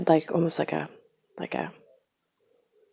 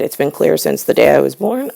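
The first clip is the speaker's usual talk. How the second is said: louder, fast, furious words; angry retort; 8 dB louder than usual. Retold or imitated. Son shouting back at mother, fast and angry. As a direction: let the anger spill out fast. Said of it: "then I got angry".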